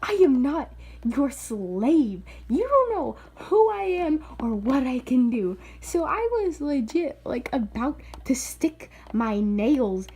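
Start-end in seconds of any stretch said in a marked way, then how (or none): 0.0-5.6 pissed-off retort. Retold or imitated. Telling off the little kid over his drink, pissed off. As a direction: act out an affronted comeback. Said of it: "I was already pissed off".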